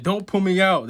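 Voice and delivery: high, loud demon sword protest; high, loud cry. Retold or imitated. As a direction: pitch up and shout. Sword voiced shouting.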